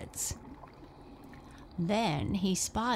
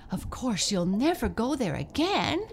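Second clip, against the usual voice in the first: sensible sister; 4 semitones higher, 4 dB louder than usual. A narrator's reading. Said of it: "said Eva".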